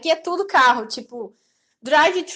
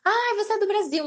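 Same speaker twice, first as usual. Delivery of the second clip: mock excited; 7 semitones higher than usual. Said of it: "as pessoas eram mais empolgadas".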